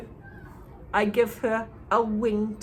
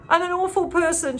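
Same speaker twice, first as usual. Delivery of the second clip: through tears; 9 semitones higher, 4 dB louder than usual. A narrator's reading. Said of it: "she says through her tears".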